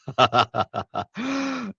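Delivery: a real high burst of laughter; amused high cackle. Real, not acted. Laughing at a funny comment.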